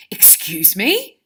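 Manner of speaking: drawn-out sharp query, rising at the end; indignant, lifting on the last word. Shown as a demonstration. Teacher reading Ron's line aloud to pupils, sharply. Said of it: "said Ron sharply".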